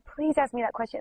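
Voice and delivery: lightly begging; mild pleading. Retold or imitated. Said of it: "begging me, like".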